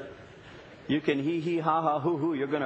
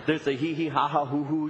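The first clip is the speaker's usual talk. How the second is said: Lamaze breathing demo. Shown as a demonstration. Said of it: "'cause there's a".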